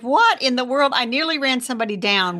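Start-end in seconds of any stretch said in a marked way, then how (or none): 0.0-0.9 higher-pitched retold disbelief; retold astonishment. Telling co-host about pink poinsettias spotted in October, astonished. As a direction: replay a startled reaction, mildly hammed up. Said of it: "I'm like".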